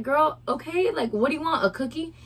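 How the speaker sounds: mocking comeback. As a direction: retell it as a sassy, sing-song taunt. Sarcastic comeback retold from argument.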